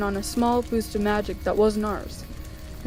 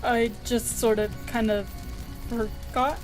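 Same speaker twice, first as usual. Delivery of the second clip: halting, guilty admission; sheepish confession; 3 dB quieter than usual. Acted. Patient confessing he forgot, sheepish. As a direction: hedge and tail away quietly.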